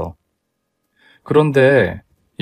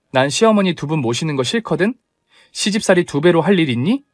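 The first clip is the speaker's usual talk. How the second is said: higher-pitched, mildly heated protest; indignant refusal; 4 semitones higher than usual. Acted. Bride refuses two mothers-in-law, indignant refusal. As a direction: refuse with a touch of annoyance.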